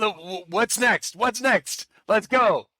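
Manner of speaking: hyped-up teammate rallying the others; fired up. Acted. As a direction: egg them on, raring to go. Acts out eager, fired-up teammate.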